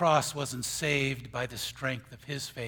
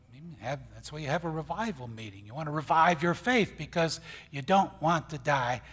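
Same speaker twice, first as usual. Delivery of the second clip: ordinary talk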